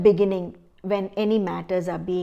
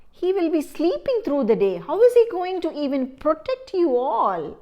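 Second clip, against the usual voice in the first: scornful scolding; 5 semitones higher, 4 dB louder than usual. Acted. Crow scolds the birds.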